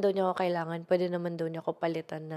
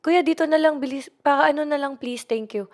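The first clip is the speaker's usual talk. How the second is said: louder, higher, hurried "let me off here"; urgent plea to driver; 6 semitones higher, 5 dB louder than usual. Retold or imitated. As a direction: urge the driver to stop, now. Urging the driver to stop. (pasigaw na pakiusap sa drayber)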